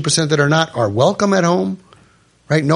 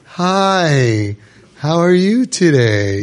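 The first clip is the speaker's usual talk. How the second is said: psychotic cheerfulness; much slower than usual. Shown as a demonstration. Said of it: "not like".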